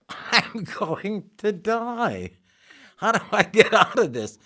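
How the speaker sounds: retold panic. Panicking while being choked onstage.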